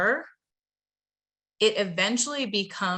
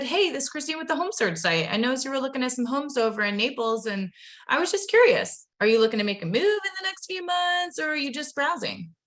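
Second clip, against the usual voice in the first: a touch higher, friendly and rising into the question; upbeat sales pitch; 4 semitones higher, faster than usual. Shown as a demonstration. Trainer showing the right opening line, friendly pitch. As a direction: keep it breezy and friendly. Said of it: "I just said".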